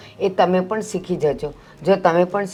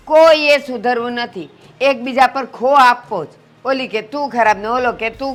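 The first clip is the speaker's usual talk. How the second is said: exasperated; 4 dB louder than usual. Acted. Mother-in-law fed up with quarrel.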